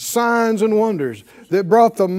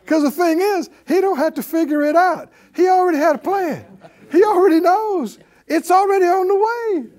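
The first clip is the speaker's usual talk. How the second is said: rising joy; 9 semitones higher than usual. Acted. Preacher's joyful rising declaration.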